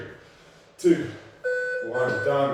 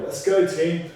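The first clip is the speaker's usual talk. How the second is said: rallying shout; 4 semitones higher, 6 dB louder than usual. Real, not acted. Rallying the class mid-workout.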